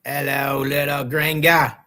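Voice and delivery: slow, hammed-up Australian greeting; mock Australian twang; Australian-sounding accent. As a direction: draw it out in a put-on Australian accent. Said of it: "the accent on you is so Australian".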